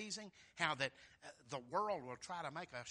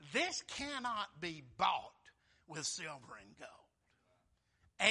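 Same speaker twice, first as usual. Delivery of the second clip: firm refusal; 4 dB louder, much slower than usual. Acted. Peter's stern refusal quoted.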